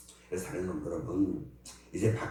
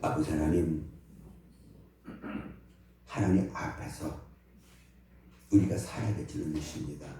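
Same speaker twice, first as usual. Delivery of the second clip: prayer; 4 dB louder than usual. Acted. Pastor leads closing prayer. (목사가 회중을 위해 드리는 엄숙한 기도)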